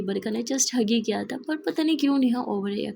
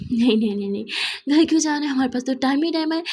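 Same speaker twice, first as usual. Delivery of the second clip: sarcastic protest; 2 semitones higher, 4 dB louder, faster than usual. Acted. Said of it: "Neha बोली".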